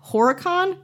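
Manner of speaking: Horicon said with a high questioning rise; unsure pronunciation. Shown as a demonstration. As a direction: try out Horicon like a guess. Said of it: "I'm not even sure I'm saying the town right".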